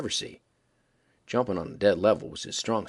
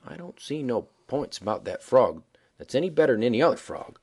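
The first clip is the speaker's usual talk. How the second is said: very deliberate. Acted. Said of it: "and says, very deliberate".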